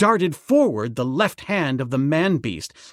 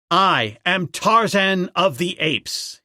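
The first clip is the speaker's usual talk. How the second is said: slow, raised proclamation; Tarzan crying out; 3 semitones higher than usual. Acted. Ape man declaring himself to the tribe, raised cry. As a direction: announce yourself slowly to the apes. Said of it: "he cried".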